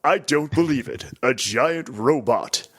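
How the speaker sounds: lightly voiced game narrator; mildly theatrical call-out, stretched at the end; narrator imitation. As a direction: do a touch of showy narrator. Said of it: "the narrator guy's awesome".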